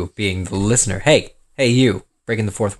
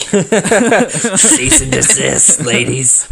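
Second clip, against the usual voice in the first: 1 mock decree; 3 semitones higher, much slower than usual. Mock stern call.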